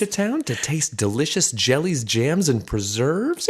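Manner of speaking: mock-grand questioning read. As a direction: repeat it back to make it sound lame. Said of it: "I'm trying to mock you".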